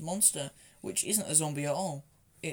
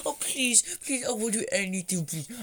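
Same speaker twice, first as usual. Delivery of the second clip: pleading, pitched up at first; mock begging; 4 semitones higher than usual. Begging the shelter's occupants to let them in, mock pleading. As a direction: beg them to let you in. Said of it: "kiss their ass".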